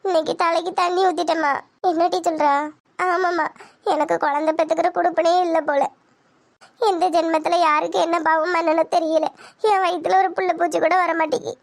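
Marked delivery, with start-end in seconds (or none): 0.1-1.5 mildly tearful confession; understated weepy voice. Acted. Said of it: "எதுக்கிட்டி அழுவுறா". 3.1-11.5 mildly weepy lament; understated crying voice; tearful. Acted. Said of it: "அழுவாதடி".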